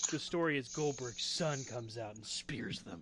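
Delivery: whisper. Real, not acted. Conspiratorial prediction.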